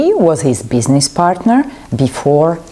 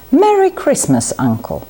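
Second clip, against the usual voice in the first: happy greeting; 10 semitones higher than usual. A narrator's reading. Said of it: "said Fred with a happy smile".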